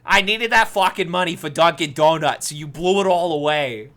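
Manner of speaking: lightly put-on Brooklyn accent; mildly hammed Brooklyn accent, girlfriend scolding. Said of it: "My Brooklyn accent".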